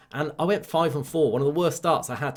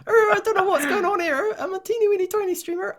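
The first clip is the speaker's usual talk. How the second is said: much higher, squeaky Bristolian twang; silly Bristolian accent. Pretend. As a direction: keep the high Bristolian put-on going. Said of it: "really Bristolian for a minute".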